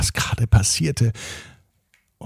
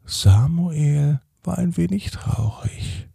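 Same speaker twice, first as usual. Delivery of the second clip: whispering; 2 semitones lower, 4 dB quieter than usual. A narrator's reading. Sleepy bedtime story turn.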